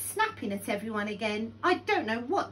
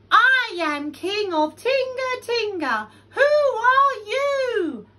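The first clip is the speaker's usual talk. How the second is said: loud, high, full-force shout; brave proclamation; 13 semitones higher, 12 dB louder than usual. A narrator's reading. Lion bravely answering the big voice, shouting. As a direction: bellow it boldly into the cave. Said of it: "Lion decided to be very brave".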